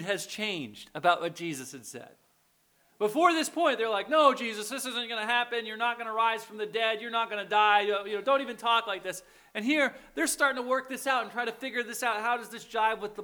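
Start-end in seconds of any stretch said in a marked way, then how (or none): 4.1-9.2 disciples objecting, lightly acted; mildly acted, insistent refusal; mock protest. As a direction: push back insistently in a run of denials. Voicing disciples' protest to Jesus.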